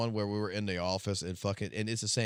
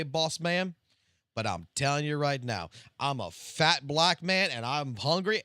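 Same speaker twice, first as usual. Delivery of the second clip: higher, louder imitated employee pleading; hungry employee; 7 semitones higher, 6 dB louder than usual. Late worker explaining himself to his boss, imitated high and loud. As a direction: play the caught worker owning it with chips in hand, pitched up. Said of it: "And he said".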